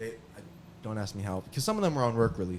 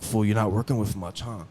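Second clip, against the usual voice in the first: loud mocking jab, louder; taunting cellmate; 7 dB louder than usual. Cellmate mocks his stream, loud and taunting. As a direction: heckle him loudly over the urinal.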